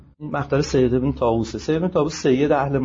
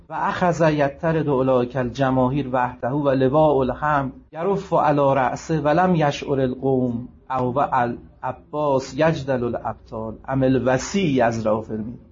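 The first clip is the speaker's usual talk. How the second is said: maqtal recitation; 2 semitones lower than usual. Acted. Preacher reciting the maqtal to mourners, chanted. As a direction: intone the Arabic narrative like a mourning chant.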